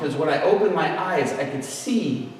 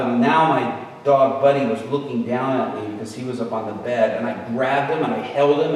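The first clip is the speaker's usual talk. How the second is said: ordinary delivery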